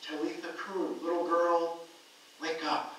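gentle command. Retold or imitated. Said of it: "He took her by the hand and said to her".

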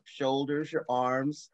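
measured meditation leading, phrase by phrase with long pauses; guided meditation. Acted. Leading a group through a grounding breath exercise, guided meditation. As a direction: guide the breath unhurriedly, leaving space between phrases.

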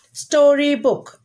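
"Storybook" stretched slowly over three syllables; slow teacher's model of "Storybook"; syllables sounded out. Shown as a demonstration. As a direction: draw out each part of "Storybook". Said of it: "These are three syllable words".

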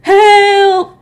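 tiny mice crying out; squeaked help. Acted. Shy mice fleeing the geese, squeaked shout. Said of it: "squeaked the shy mice".

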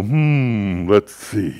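child's mock-pondering uncle, lightly done; imitating a thoughtful beard-stroker; Uncle Mark. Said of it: "use the lowest voice he could muster".

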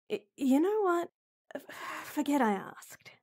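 exasperated. Acted. Frustrated outburst, stammering.

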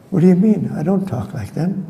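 mock-indignant Alert Bay accent. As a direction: protest lightly in Alert Bay English. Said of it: "she came home talking like that".

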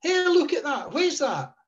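imitating dad calling the wife over; retold shout. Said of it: "And he shouted".

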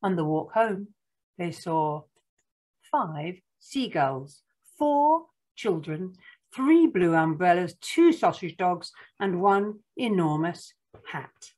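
counting list read with emphatic pauses; picture-book narration. Acted. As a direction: read it to small children, landing each number.

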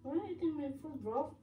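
bad fake British accent; hammy British accent, badly done; awful British accent. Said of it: "That is an awful British accent".

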